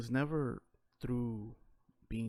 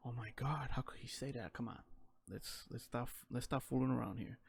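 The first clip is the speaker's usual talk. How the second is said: imitating prim shock, softer, half whispered; mock shocked; 4 dB quieter than usual. Offended bystanders reacting: mock prim shocked hush. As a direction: clutch your pearls, hushed. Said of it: "everybody be like".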